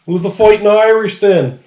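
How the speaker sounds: drifting fake Irish brogue; wobbly put-on Irish lilt, half-lost; mock Irish accent. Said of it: "what accent I'm doing now".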